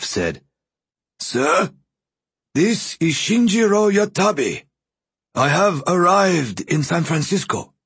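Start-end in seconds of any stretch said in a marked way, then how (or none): 1.2-7.7 put-on high, dry, papery old voice; dry rustling voice. A narrator's reading. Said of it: "a faint, dry, rustling voice, almost like old leaves far off".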